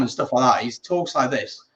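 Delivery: lightly voiced calm Scouse pundit; Jamie Carragher, calm. Shown as a demonstration. Showing co-host the pundit when calm, light Scouse. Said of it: "when he's calm".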